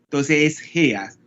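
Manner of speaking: Heas said slowly, like "heas"; German pronunciation. Shown as a demonstration. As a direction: Heas with an airy h and no clear r. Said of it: "Nosotros pronunciamos Hertz".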